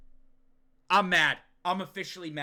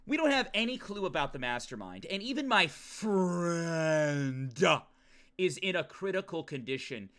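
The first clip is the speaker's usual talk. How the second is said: mock-dramatic narration. Streamer rereading Yuki's thought for chat, mock-dramatic narration. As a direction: read it solemnly, stretching friend. Rereads game line theatrically.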